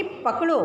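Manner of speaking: high पकड़ो followed by a comma break; pause after पकड़ो. Shown as a demonstration. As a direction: set पकड़ो apart and stop. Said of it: "के बाद comma है".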